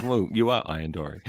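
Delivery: understated mock-sarcastic jab; mimicked sarcasm. Daughter jabbing forgetful dad, mimicked sarcasm. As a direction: imitate a sarcastic child. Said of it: "in such a sarcastic way".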